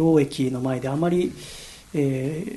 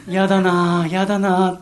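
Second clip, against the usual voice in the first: reluctant groan; 3 semitones higher, 5 dB louder, slower than usual. Retold or imitated. Recalled thought, dreading trip.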